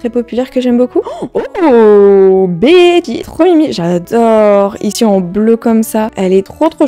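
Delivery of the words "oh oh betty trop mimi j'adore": thrilled little cry over a favourite; delighted squeal. Real, not acted. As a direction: squeal her name with real delight. Pulls a favourite villager.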